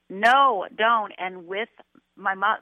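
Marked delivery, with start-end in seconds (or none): 0.1-1.1 retold scream. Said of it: "and screamed".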